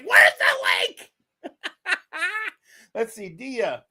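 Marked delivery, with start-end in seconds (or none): 0.0-1.1 much lower, louder laughing mock voice; imitating Dia. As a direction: drop way down and boom the question through a laugh. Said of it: "Dia say".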